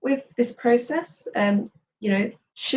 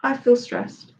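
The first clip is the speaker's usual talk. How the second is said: "I feel stressed" a little louder, firm on "feel"; 2 semitones higher, slower than usual. Shown as a demonstration. Tapping coach repeats the phrase louder for the listener, a little louder. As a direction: state "I feel stressed" out loud, a touch louder. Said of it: "Saying out louder to yourself".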